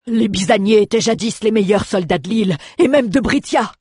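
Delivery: captain's proud exclamation, pitch climbing at the end; exclaiming. Acted. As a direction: boast of old glory. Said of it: "s'exclama le capitaine Giametta".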